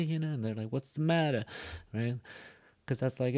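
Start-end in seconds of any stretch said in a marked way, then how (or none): 0.7-1.4 higher-pitched mock Italian-accented question. Shown as a demonstration. Teacher imitating people met around the country, Italian accent. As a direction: put on a light Italian accent. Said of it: "an Italian accent or something".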